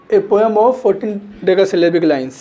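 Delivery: drawn-out, deliberate reading of the definition; slowly dictated definition; slow dictation. Shown as a demonstration. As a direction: spell it out slowly for the class. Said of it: "ठीक?".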